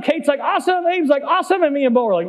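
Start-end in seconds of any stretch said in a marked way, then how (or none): 0.4-0.8 high mock cheer; acted-out elation; imitated thrilled rider. Child cheering on spinning ride. 1.2-1.6 high mock cheer; acted-out elation; imitated thrilled rider. Child cheering on spinning ride.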